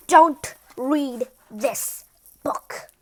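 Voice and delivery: slow hushed warning whisper; creepy slow whisper. Acted. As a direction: breathe the warning slowly. The king warns the reader.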